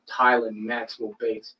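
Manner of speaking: very slow, sarcastic name; retold sarcastic over-slow answer; irritated sarcasm. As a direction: drag it out, fed up with repeating. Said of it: "I was irritated ... I was sarcastic".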